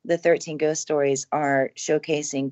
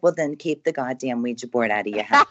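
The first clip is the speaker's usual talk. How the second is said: laughing; 4 semitones lower than usual. Retold or imitated. Retelling a friend's punchline, laughing.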